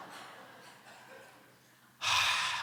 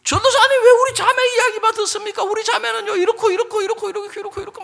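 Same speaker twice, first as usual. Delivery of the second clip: very high, loud rapid-fire grievance; mock outraged protest; 10 dB louder, faster than usual. Husband protesting to the evangelist about his wife, mock outrage. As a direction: burst out in hammed-up protest and reel off complaints.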